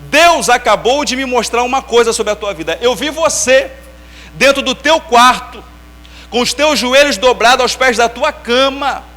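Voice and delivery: slow, loud prophetic pronouncement, drawn out; profeta pregando. Retold or imitated. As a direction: proclaim it like a prophet at the altar. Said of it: "falou assim". (voz de profeta, lenta e forte)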